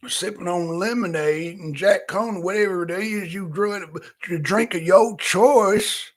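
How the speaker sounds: Southern drawl with stretched word endings; lazy bayou drawl. Shown as a demonstration. Streamer acting out his idea of Gambit, lazy bayou drawl. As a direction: play a laid-back Louisiana Gambit with a drawl. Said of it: "that's what I picture Gambit".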